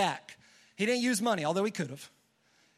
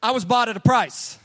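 loud, excited declaration; proud congregation shout; 8 dB louder than usual. Shown as a demonstration. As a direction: shout it out with joy. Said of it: "How about you be a little bit excited?".

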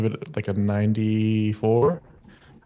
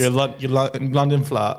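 mock London accent, slightly raised; Cockney accent; 3 semitones higher than usual. Co-host joining in the Steven bit, mock Cockney accent. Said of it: "that's more of a Cockney accent".

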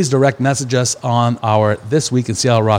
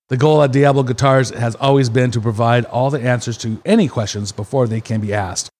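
ad read. Acted. Sponsor ad read.

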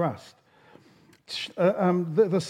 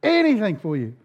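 acted high-pitched pleading promise; desperate cry; 5 semitones higher than usual. Hiker promises God whatever He asks, acted desperate plea. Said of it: "In desperation, he cries out".

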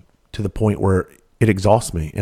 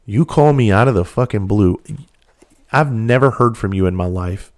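angry. Retold or imitated. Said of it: "I was fucking furious".

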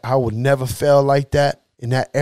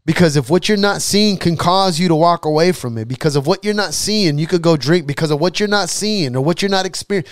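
fervent preaching; 6 semitones higher than usual. Acted. Preaches in God's voice.

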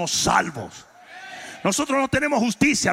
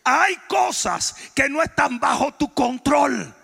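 preaching; 4 semitones higher than usual. Real, not acted. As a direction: drive each phrase home to the congregation. Preaches at full force to congregation.

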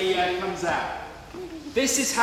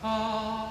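ethereal ah; 2 semitones higher, 9 dB quieter than usual. Shown as a demonstration. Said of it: "make a noise like".

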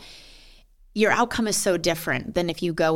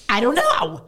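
higher-pitched mock wail; woe-is-me whine; 6 semitones higher, 4 dB louder than usual. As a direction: imitate your own helpless whining. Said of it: "my woe is me moment".

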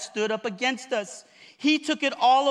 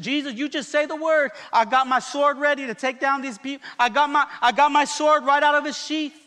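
a lightly voiced angel, raised and louder, sword ready; an eager warrior begging for the word; 4 semitones higher, 5 dB louder than usual. Angel pleading with Jesus to let him fight, eager. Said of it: "The angel's positioned".

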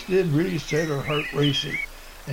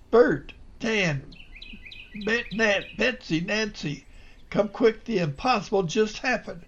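higher, urgent call to the cabins; 5 semitones higher than usual. Acted. Clem calling his family from the cabins, elated shout. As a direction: summon everyone, bursting with news.

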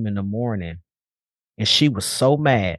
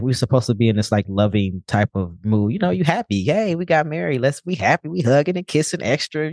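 mock lovey-dovey. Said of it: "and she was like".

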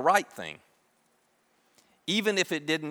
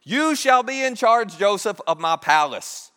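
slow, louder, higher pronouncement as Pharaoh; royal decree; 4 semitones higher, 5 dB louder, slower than usual. Retold or imitated. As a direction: proclaim it like a king to his court. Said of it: "he says".

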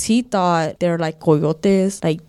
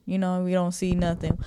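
muttered; 7 dB quieter than usual. Retold or imitated. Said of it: "Like, we ain't".

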